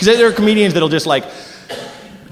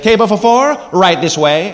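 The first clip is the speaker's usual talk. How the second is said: put-on Italian accent; 3 semitones higher than usual. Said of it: "that accent is just adorable".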